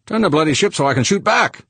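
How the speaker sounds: high, urgent shouted demand; urgent yell. A narrator's reading. George to pilot under fire, urgent yell. Gunner yelling during space battle.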